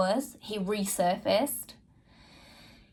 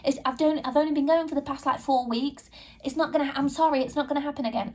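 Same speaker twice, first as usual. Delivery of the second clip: higher, fast, lightly voiced protest; pleading fiancé; 4 semitones higher, faster than usual. Fiancé begging her not to call off the wedding, fast protest. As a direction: rush the excuses, a bit higher. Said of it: "And he was like".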